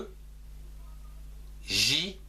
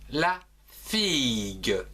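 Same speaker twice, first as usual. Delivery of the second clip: slowed model word; slower than usual. Shown as a demonstration. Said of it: "comme par exemple".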